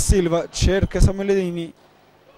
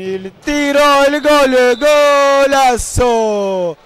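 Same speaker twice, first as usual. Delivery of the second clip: rising goal call, stretched out; breathless italian goal commentary; 2 semitones higher, 3 dB louder, much slower than usual. Real, not acted. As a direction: yell the goal, drawing it out. Live goal call in match.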